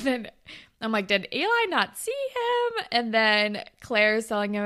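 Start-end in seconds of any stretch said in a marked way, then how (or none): 1.1-2.8 very high-pitched puzzled question; incredulous. Retold or imitated. Host questioning what Eli saw, incredulous. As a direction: squeak it out in disbelief. Host's incredulous reaction, retold.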